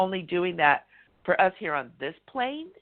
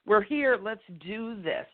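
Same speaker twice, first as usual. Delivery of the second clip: higher, rallying call to the crowd; imitating a singer cheering; 6 semitones higher than usual. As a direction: pump up the crowd like a rock star. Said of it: "he's doing that, like".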